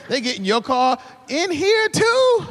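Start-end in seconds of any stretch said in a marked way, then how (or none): 1.3-2.5 high, very slow drawn-out shout; hammed-up horrified yell. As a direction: stretch each word out in disgust. Friend gets in your car.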